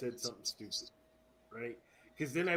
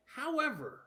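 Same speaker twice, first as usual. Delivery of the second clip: mock formal announcer; 12 semitones higher, 4 dB louder than usual.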